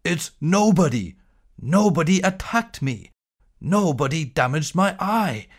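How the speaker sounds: insistent giant voice rising in pain; giant shouting. Acted. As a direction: shout back accusing Nobody. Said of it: "Gawk shouted back".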